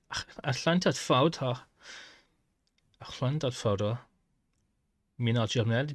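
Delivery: Arabic words with a German accent, "Ahlan dat Fauda"; German-tinged Arabic. Shown as a demonstration. Testing the game, Arabic with a German accent. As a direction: say "Ahlan" like a German speaker would. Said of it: "I sound German".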